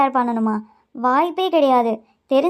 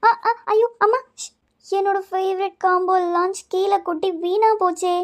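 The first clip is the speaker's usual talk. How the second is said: dismayed cry; 6 semitones higher than usual. Acted. Lunch box spills on floor.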